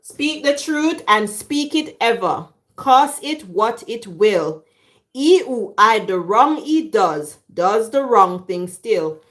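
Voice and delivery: measured, slowed recital of a verse; school recitation. Acted. Reciting a school verse to viewers, measured recitation.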